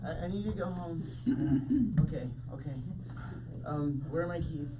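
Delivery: put-on soft, low drunken mumbling; drunk mumble. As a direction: mumble it like you're tipsy. Drunk woman winding down.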